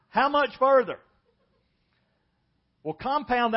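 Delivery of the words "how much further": high, loud mock whine of a bored child; whiny kid. Pastor imitating children in the car, loud mock whine. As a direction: play the impatient kid in the back seat, stretched and loud. Kids whining on a car trip.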